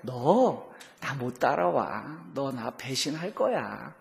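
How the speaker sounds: slow, soft, matter-of-fact; calm Jesus. Retold or imitated. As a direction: say it slowly and plainly, no scolding. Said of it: "주님 뭐래?". (담담하고 느리게)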